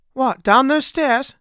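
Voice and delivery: high, loud, drawn-out disbelief; slow, startled query; incredulous question. A narrator's reading. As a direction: balk loudly, pitched right up. Crewman balks at the stairs.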